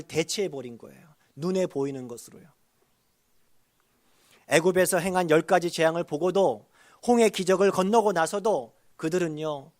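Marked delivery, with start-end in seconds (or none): 4.5-9.7 raised, loud pulpit cadence; emphatic preaching. Real, not acted. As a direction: drive each repeated clause home to the congregation.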